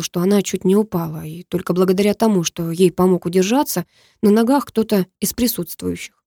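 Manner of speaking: ordinary delivery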